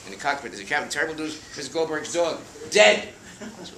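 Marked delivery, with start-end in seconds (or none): 0.9-3.1 alarmed crew blurting bad news; mock panic building; panicked news.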